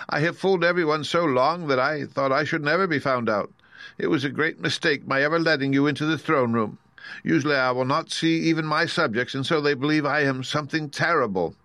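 high-pitched, lightly voiced little man; timid exposed wizard. Exposed wizard pleading over being found out, fretful. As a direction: beg fretfully for sympathy.

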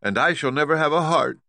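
sorrowful Tin Woodman lament. A narrator's reading. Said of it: "spoke the Tin Woodman".

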